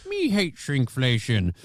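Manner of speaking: mock Schwarzenegger. Co-host hams up the anchor as Arnold, shouting. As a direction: yell it like a hammed-up Arnold. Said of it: "she's bringing Arnold Schwarzenegger in it".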